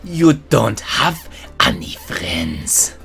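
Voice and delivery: slow mock-German delivery; drawn-out German-accented put-down. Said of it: "I'm gonna do a German accent".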